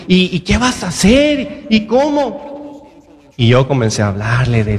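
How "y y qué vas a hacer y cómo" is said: high-pitched, stretched mock questioning; worried lady. Lady pressing a jobless father, mock alarm. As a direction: imitate an alarmed woman, climbing higher and slowing. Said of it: "Una señora así".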